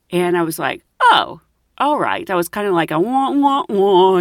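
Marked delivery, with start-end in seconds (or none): 1.0-2.3 slow, let-down reply; deflated acceptance. Retold or imitated. Disappointed at not taking wallpaper. 2.9-4.2 drawn-out mock wail of wanting; mock whining. Mimics own childish disappointment.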